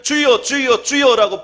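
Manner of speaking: hammed-up wailing prayer; crying out 주여. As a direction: call 주여 like a desperate plea. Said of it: "통곡을 하고 소리를".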